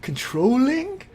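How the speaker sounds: put-on very high, drawn-out questioning English accent; attempted English accent. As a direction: stretch it out in a hammed-up English accent. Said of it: "I can't do an English accent".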